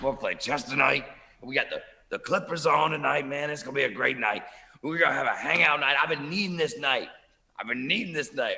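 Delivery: mock pumped-up excitement, a little drunk-sounding male. Retelling a guy's excited hangout announcement before he barfed: imitating a pumped, tipsy guy. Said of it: "I can tell he's a little bit".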